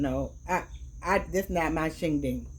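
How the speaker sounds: talking with a mouth full of crab; chewing while talking. Real, not acted. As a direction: chew and talk at once. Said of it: "I'm sorry, I'm eating crabs".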